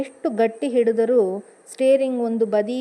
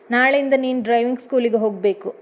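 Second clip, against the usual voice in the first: fast, mildly raised decree; mildly raised, fed-up husband; said firmly; 4 dB louder, faster than usual. Acted. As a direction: lay down the law, quick and a bit loud. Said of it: "ಗಟ್ಟಿಯಾಗಿ ಹೇಳಿದ".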